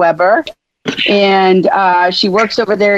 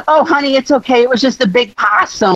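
higher, lightly voiced soothing stranger; a passerby consoling the hit walker, lightly reassuring; mock reassuring; 5 semitones higher than usual. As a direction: pat them on the head with it. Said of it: "the person would say".

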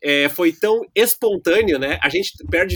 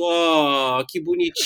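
cooing. Retold or imitated. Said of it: "Aí todo mundo".

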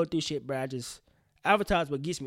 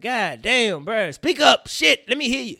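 loud, raised-pitch outburst at the screen; exasperated yelling; 6 semitones higher, 10 dB louder, slower than usual. Acted. Frustrated viewer yelling at whispering characters, exasperated.

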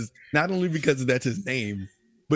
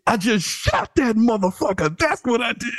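deadpan boast; 11 semitones higher, 7 dB louder than usual. Retold or imitated. Imitating silent player's sudden line.

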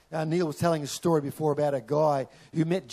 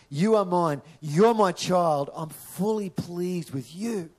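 slow, tender, emphatic words of the Father; tender Father's voice; 2 semitones higher, slower than usual. Acted. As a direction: speak them slowly as God's loving assurance. The Father speaking over listeners.

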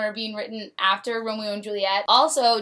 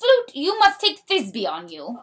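dramatic play reading; 5 semitones higher, 5 dB louder than usual. Acted.

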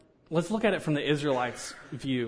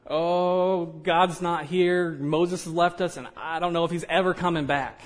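whiny Israelites; 4 semitones higher than usual. Retold or imitated. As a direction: whine it like abandoned kids. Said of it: "They were in a place and said".

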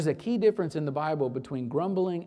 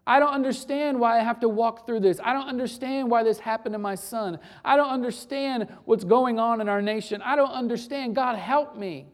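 heartfelt lament; 5 semitones higher, 5 dB louder than usual. Acted.

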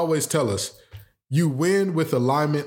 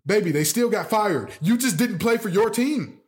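sarcastic; 6 semitones higher than usual. Real, not acted. Talking to Kyrie, rising pitch.

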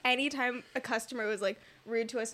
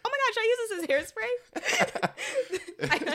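mock dramatic; 12 semitones higher, 3 dB louder, slower than usual. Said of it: "went to my mom".

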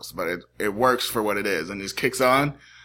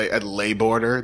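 mock French; 2 semitones lower, slower than usual. Shown as a demonstration. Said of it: "That is French".

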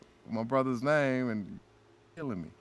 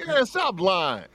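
mock disbelief; 8 semitones higher, 8 dB louder, slower than usual. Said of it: "And we were like".

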